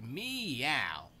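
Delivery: long falling meow; cat meow. Retold or imitated. Charlie the friendly cat wanting attention, drawn-out meow. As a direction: imitate a friendly cat's meow. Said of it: "He was just like".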